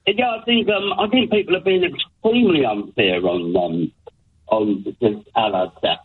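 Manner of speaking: distant caller on speakerphone; talking away from the phone; phone held away. Real, not acted. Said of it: "could you talk into the phone?".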